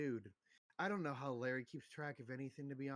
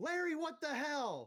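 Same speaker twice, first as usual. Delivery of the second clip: shrill, pitched-way-up, loud shout; 13 semitones higher, 6 dB louder than usual. Playing a character who looks to the sky and calls out: shouting in character. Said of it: "he's gonna shout".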